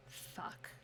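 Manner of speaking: very soft, whispered curse; dismayed whisper. Retold or imitated. Owner spotting dogs near her aggressive dog, dismayed whisper. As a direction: let it drop to a near-silent whisper. Sudden dread on seeing the dogs.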